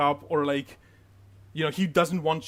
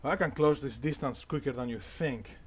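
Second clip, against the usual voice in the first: low, controlled stern warning; stern guard; 3 semitones lower, 4 dB quieter than usual. Acted. Spear guard sizes up the armed intruder, stern and low. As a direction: warn them off, low and steady. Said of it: "he seems very, um, stern".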